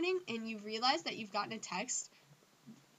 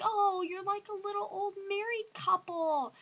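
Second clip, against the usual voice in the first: higher, louder singsong tease; lightly voiced smug friend, higher and louder; mock teasing friend; 10 semitones higher, 5 dB louder than usual. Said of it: "somebody else in the group is like".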